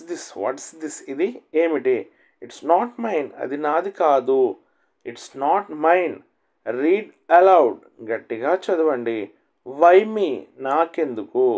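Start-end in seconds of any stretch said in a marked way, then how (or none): 5.1-6.2 each word stretched out, very slow; a teacher slowing right down so students can repeat; very slow model reading. Shown as a demonstration. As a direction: spell it out slowly for learners. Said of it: "teacher repeats phrase very slowly".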